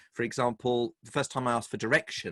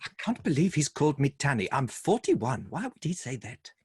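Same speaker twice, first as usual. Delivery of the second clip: higher-pitched imitation of an affronted wife; mock indignation; 4 semitones higher than usual. Wife offended at being called Tanny, in mock indignation. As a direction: act out her offended disbelief.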